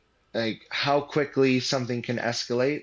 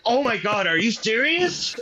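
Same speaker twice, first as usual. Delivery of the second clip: much higher, imitating the advisor's shock; stunned disbelief; 11 semitones higher, 4 dB louder than usual. Advisor learning the buyer is a famous rapper, shocked. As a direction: blurt it out, not believing what he just googled. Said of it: "he's like".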